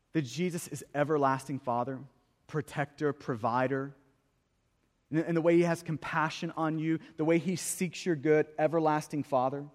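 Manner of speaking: low, soft pastoral comfort; gentle reassurance. Real, not acted. Preacher reminds doubting believers of a caring Father, gently reassuring. Reassuring congregation with Isaiah's words.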